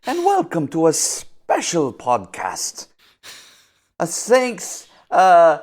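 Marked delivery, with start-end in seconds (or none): 0.0-2.9 loud greeting. Acted. Cowboy greeting intro.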